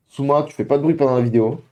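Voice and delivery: quick high-pitched reminder to behave; quick aside scolding. Real, not acted. Telling little Souma to keep quiet.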